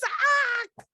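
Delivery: sudden high loud yelp; a man yelping as water hits his lap; startled yelp. Acted. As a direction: jump up with a shocked cry. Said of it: "Ollie stands up and says".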